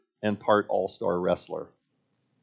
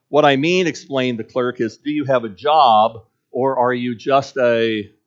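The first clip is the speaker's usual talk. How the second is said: a hint of a pushy clerk, louder; lightly voiced clerk; 5 dB louder than usual. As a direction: press her for an answer. Clerk quoted in told story.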